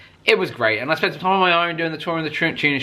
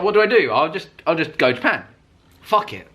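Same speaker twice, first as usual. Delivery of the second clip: impulsive; 4 semitones higher than usual. Retold or imitated. Retold impulsive decision.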